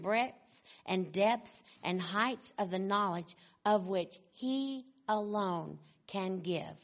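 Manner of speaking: measured reading with stretched key words; formal quote reading. Acted. Preacher reading of truths vast and profound, formal and measured. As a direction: read it weightily, pausing between phrases.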